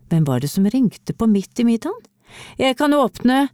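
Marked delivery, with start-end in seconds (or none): 2.6-3.5 put-on a higher, keen shout of a boy volunteering; eagerly calling out, pitched up. A narrator's reading. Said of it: "ropte Leo ivrig".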